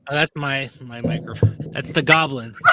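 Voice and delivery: echoey toy mic voice; talking through an echo mic; toy echo microphone. Real, not acted. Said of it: "What is that echo microphone noise?".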